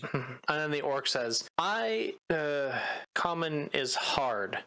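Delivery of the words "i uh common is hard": broken common. Acted. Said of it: "he's struggling to speak common to you".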